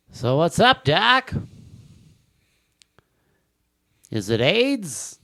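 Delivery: halting cartoon-rabbit impression, rising high; Norm Macdonald as Bugs Bunny. Comic doing his dumb crossover impression, Bugs Bunny voice. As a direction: drag out the hesitations, then pitch up the catchphrase. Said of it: "Norm Macdonald as Bugs Bunny".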